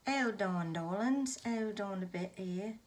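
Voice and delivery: light put-on English accent, playful; a touch of an English accent. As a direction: coo it to the darlings in a mock English accent. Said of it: "Do my English accent".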